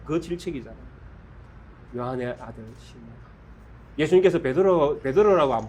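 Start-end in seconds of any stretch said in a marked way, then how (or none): 2.0-3.2 낮고 작게 다정히 부르기; 요한의를 힘주되 속삭이듯 작게; soft quiet call. Acted. 예수님의 조용한 부름. (제자를 조용히 부르는 다정한 목소리)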